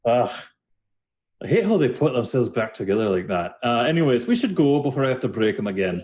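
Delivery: a touch of mild annoyance in character; Dahlin. Acted. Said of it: "And he goes".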